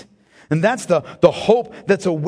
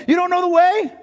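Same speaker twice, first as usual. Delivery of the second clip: much higher, louder "You don't know the way", stretching "way"; rising proclamation; 11 semitones higher, 5 dB louder than usual. Acted. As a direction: lift the repeat higher than the first. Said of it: "Jesus eliminates all of his fears by saying".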